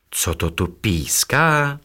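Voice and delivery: slow, wondering question; puzzled little hens asking; curious. Acted. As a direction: ask it full of curiosity. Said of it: "ptali se zvědavě".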